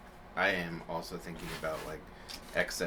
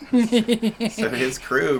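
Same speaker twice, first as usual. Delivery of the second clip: laughing; 10 dB louder than usual. Real, not acted. Laughing while telling story.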